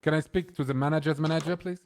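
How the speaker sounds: entitled customer. Acted. Demands the manager's manager.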